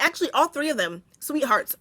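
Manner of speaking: put-on switching to a sugary defence of the girls; mock-sweet, protective; sudden sweet tone. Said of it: "I wanna change my tone so quickly".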